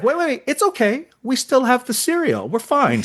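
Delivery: high, hurried comic calm; hammed-up relief over cereal; mock reassurance. Calming down, cereal still there.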